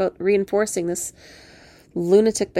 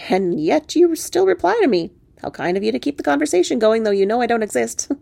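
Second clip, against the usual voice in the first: wry talking frog; 4 semitones higher, 3 dB louder than usual. Acted. Frog answers back to her.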